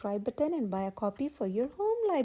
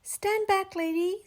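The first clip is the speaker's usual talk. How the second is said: foreman; 7 semitones higher, slower than usual. Acted. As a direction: bark the order to stand back. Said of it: "said the foreman".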